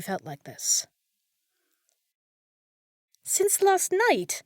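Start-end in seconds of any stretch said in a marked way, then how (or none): 3.2-4.4 much higher, louder, slow repeat; appalled, slow repeat; shocked echo. Acted. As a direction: echo his words in dismay. Maid echoes wizard's answer, shocked.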